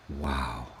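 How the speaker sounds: a soft, low wow; hushed awe. Acted. Looking at a tree and going, in hushed awe. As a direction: breathe it out in quiet wonder.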